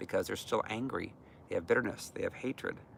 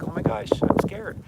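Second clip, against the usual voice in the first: put-on high, frightened child's voice, pushed loud; a small child suddenly afraid; scared little girl; 9 semitones higher, 9 dB louder than usual. Triggered alter cries out as a frightened little girl. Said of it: "triggered into that little girl".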